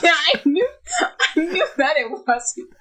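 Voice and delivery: high-pitched talk through real laughter; cracking up at your own flop; laughing. Real, not acted. Owning up to the botched accent, laughing.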